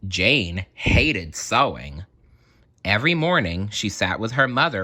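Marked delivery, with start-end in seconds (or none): 0.1-2.0 story narration. A narrator's reading. Slow story opening line.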